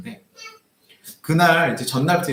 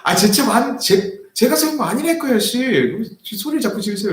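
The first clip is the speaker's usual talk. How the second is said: much higher, louder, retold yelling; heated retort; 10 semitones higher, 4 dB louder than usual. Pastor yelling back at the old man in the lot. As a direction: fire it back, losing patience. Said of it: "팍 터진 거예요".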